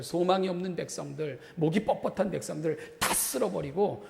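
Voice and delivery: a touch of agitated urging; worked-up God. Acted. God offering Moses a new people, worked up. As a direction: press the offer on Moses, mildly heated. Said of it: "하나님이 흥분하신 거죠".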